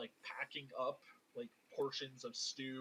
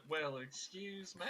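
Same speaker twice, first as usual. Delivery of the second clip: mock offence; 3 semitones higher than usual. Player repeating what she said, mock offence. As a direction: stretch it out as if offended. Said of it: "She said".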